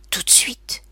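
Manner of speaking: breathy, toneless urgent whisper; mechanical whisper. A narrator's reading. The mystery caller begs Quinn to talk now, in a flat whisper. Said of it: "Le même chuchotement mécanique".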